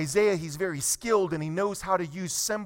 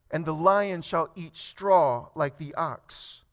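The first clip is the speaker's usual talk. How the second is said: slow, measured Bible reading; deliberate reading from the pulpit; scripture reading; 2 semitones lower than usual. Acted. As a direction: read the verse slowly, pausing after each phrase. Reads scripture to congregation.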